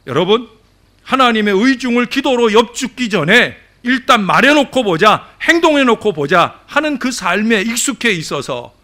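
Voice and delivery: loud, high-pitched sermon delivery; preacher raising the voice in admonition; forceful preaching. Real, not acted. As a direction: drive the point home to the congregation.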